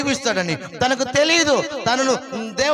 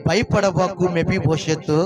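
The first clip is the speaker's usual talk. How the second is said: reassuring; 4 semitones lower, slower than usual. Acted. King David comforts frightened guest.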